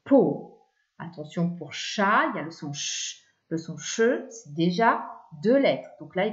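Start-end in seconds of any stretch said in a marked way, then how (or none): 0.0-0.6 "po" set apart, louder; isolated syllable. Shown as a demonstration. Teacher giving the second syllable to write, isolated syllable. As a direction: punch "po" as a sound on its own. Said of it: "on va écrire".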